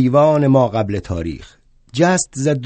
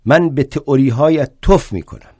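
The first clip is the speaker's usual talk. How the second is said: a louder, defiant outburst; mild shout; 3 semitones higher, 4 dB louder than usual. Acted. Bakunin scorning Marx's theories, a mild defiant shout. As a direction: spit the words out defiantly. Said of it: "داد زد".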